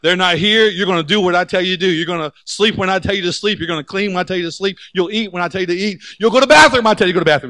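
mock drill sergeant building to a fast, loud yell. Sergeant yelling orders at a recruit, mock drill sergeant building to a fast yell. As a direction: bark orders like a sergeant in your face. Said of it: "the drill sergeant gets you in your face".

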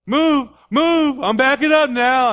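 high, loud mock panicked shout; acted yelling. Driver yelling at the dog behind the bumper, high shout. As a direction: holler at a dog behind the car.

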